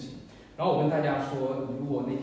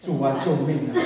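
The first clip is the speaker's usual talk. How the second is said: retold cry for help; 2 semitones lower, 5 dB louder than usual. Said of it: "我喊的是什么呢？".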